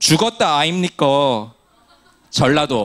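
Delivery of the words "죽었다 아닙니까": Gyeongsang regional dialect accent. Giving the gyeongsang example in a korean dialect comparison, gyeongsang dialect accent. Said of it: "경상도".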